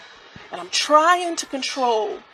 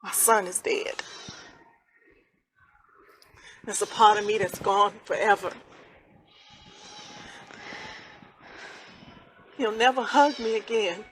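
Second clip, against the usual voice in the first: hollow grief; 9 dB quieter than usual. Acted. Grieving mother, quiet despair.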